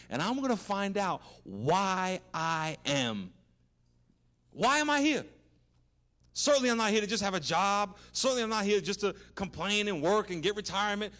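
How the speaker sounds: building to a high, loud cry of longing; fervent prayer. Pretend. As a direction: plead with rising passion, then soar. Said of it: "you start praying".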